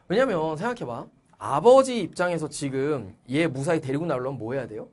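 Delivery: ordinary delivery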